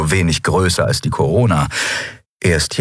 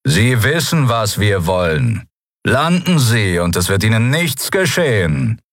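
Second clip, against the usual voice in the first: seething shrieking spirit; 2 semitones higher than usual. Acted. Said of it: "die bizarr verzerrte Stimme ihrer Verfolger".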